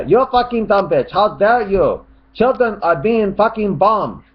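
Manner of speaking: high shouted rant in separate sentences; mock angry shout. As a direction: shout it high, ending firmly on each sentence. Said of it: "He starts shouting".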